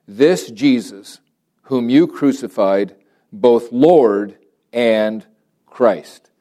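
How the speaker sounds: slow, weighty proclamation with pauses; measured pulpit reading, drawn-out key words; emphatic scripture reading. Real, not acted. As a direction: proclaim the verse word by word. Reads scripture aloud.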